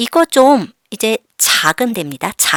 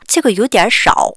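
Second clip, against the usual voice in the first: very slow, spelled-out Chinese; teacher drilling slowly; slow model reading; much slower than usual. Shown as a demonstration. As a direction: model each syllable slowly for learners. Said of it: "teacher models sentence slowly".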